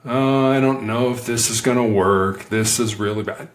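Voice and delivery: low-energy, discouraged grumble; doubtful tone. Shown as a demonstration. Negotiator demonstrating tone, unsure this will work, downbeat. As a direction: sound like you expect it to fail. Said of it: "How is that tone of voice".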